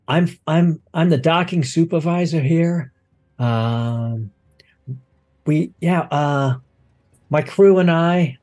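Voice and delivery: lightly voiced, hesitant crewman reporting; flustered docking supervisor. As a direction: stumble through a report, relieved at the end. Plays docking supervisor reporting to Sister.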